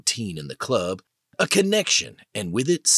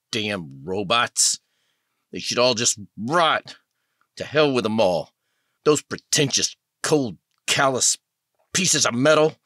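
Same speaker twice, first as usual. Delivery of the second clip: grief turning to bitter anger, building in force; anguished anger. Acted. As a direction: start subdued, then spit contempt at the robots. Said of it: "pure anger".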